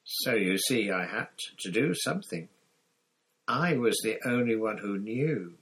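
lightly voiced gaunt prisoner, urgent; a hint of a haunted fugitive explaining; Sirius confiding. Sirius tells his story.

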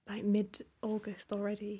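half-whispered in mock dismay. Real, not acted. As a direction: drop to a whisper in disbelief. Sudden panic about time passing.

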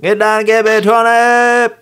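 high, loud drill sergeant bark. Acted. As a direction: bark the order at a recruit. Drill sergeant barking orders.

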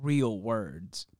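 sarcastic air quotes on real words; slow sarcastic quote, real words. Acted.

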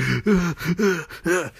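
repeated hammed-up gasps; mimed gasping. Gasman falling down beaten, mock gasping. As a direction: imitate someone choking for breath.

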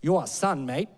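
put-on South African accent. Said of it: "do a bit of a South African accent".

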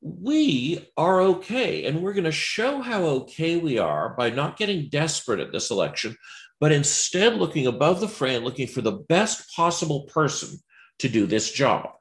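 a hint of a smug well-off liberal; mock patrician liberal. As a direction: lightly play the comfortable elite above the fray. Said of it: "where it's like".

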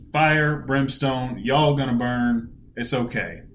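slow, lightly voiced fire-and-brimstone preacher; a hint of a Southern preacher warning sinners; drawn-out mock sermon of doom; mock Southern Baptist preacher. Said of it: "Jonah's a Southern Baptist here".

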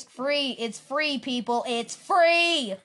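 pushy ad imitation. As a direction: spam it at them, stretching the last word. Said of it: "always trying to spam in your face".

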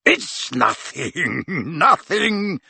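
put-on jovial old professor, laughing it off; chuckling dismissal. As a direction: wave it away with a chuckle. Slughorn waving off thanks.

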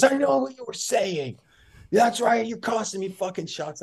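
high, far-off accusing whine; imitated accusing player. The speaker imitating Axley accusing him of costing shots, high accusing whine. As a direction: snap the accusation. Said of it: "and he goes".

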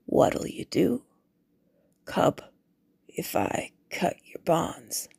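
slow, hushed threatening whisper; menacing whisper. A narrator's reading. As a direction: taunt the captive in a whisper. Guard threatens the bound boy.

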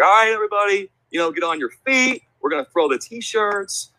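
high-pitched arena host voice, stretched out; game host hyping crowd. Retold or imitated. Host rallies fans before a T-shirt toss, hyped announcer. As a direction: re-enact calling out to the stands.

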